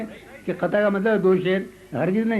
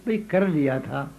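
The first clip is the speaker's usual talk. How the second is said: poem recital. Acted. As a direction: savour each line for the audience. Recites second qita.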